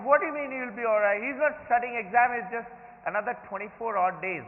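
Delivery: mildly agitated retold worry; worried. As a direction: fret aloud like an anxious parent. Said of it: "got worried".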